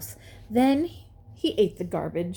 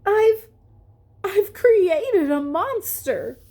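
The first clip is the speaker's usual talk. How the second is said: much higher and louder, slow; horrified stammer; 12 semitones higher, 5 dB louder, slower than usual. A narrator's reading. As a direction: stammer in dismay. Scientist horrified at creation.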